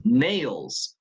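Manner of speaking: "Nails" said alone, firm, with a falling tune; stressed word nails. Shown as a demonstration. Teacher repeating the key stressed word for students. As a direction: isolate "Nails" and give it full weight. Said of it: "suena con fuerza nails".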